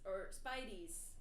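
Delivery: "Spideys" said slowly with a long I, like spider; slow, tentative "Spideys", rhyming with tidies; uncertain pronunciation. Shown as a demonstration. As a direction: try out "Spideys" as SPY-deez, drawn out. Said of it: "How do you say that?".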